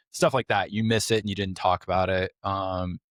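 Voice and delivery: normal talking voice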